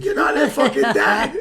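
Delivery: laughing, loud mock scolding; laughing retort. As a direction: blurt it out through laughter. Mocking Jim Carrey's overacting.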